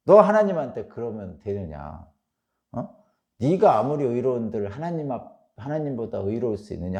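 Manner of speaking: acted scolding, forceful at the start; retold rebuke. Preacher voicing Job's friends attacking him, mock rebuke. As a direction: round on him like an accusing friend. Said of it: "득달없이 달려들어가지고".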